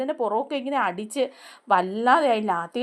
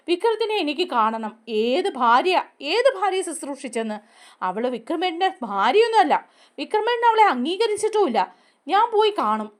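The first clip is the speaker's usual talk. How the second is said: indignant protest; 5 semitones higher than usual. Retold or imitated. Radha protests to Kamala.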